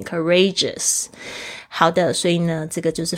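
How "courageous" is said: courageous stressed on its second syllable, re. Shown as a demonstration. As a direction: push the stress from cou to re in courageous. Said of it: "重音是在re上面". (courageous重音在re上)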